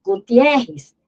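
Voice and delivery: Gutierrez with stress on e; teacher stressing Gutierrez; stressed demo. Shown as a demonstration. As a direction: pronounce Gutierrez marking the ie. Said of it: "Bota um nome aqui que não é da língua portuguesa".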